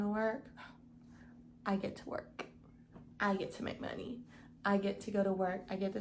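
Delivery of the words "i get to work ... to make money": whispered affirmation. Shown as a demonstration. Morning affirmation, reframing work.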